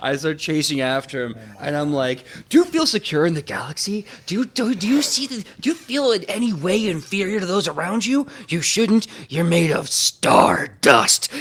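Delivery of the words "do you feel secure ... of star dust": overly upbeat screaming, high, loud, with swooping tune. Chasing a character in the game: screaming toxically positive idioms. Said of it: "I just start screaming toxically positive idioms at him".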